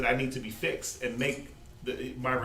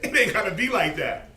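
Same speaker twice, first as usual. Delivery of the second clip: pleading through laughter, rising loud; laughing it shouldn't be this hard; laughing plea; 7 semitones higher, 7 dB louder than usual. Retold or imitated. Preacher voices his own plea while laughing, louder and higher. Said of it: "I'm like".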